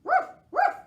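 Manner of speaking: very high, loud barking woofs; loud playful woof; dog bark. A narrator's reading. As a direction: bark it out like a puppy. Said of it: "said Dog".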